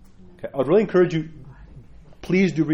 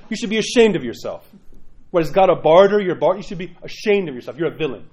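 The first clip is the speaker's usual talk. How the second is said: higher, louder mock rebuke; stern rebuke; 3 semitones higher, 4 dB louder than usual. Pastor voices the Russian priest shaming his parish, raised. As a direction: shame them bluntly. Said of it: "He says".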